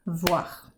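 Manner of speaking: "bavoir" split into two quiet, low beats; syllable by syllable. Shown as a demonstration. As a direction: tap out "bavoir" softly with a gap after ba. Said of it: "Quand je tape ma première syllabe".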